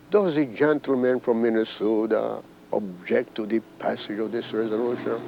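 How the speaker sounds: a lightly voiced, soft and syrupy Speaker; quiet, sugared voice. The House Speaker asks the objecting congressman, quiet and sugary. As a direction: imitate him asking quietly and sweetly. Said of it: "in a very quiet, sugared voice".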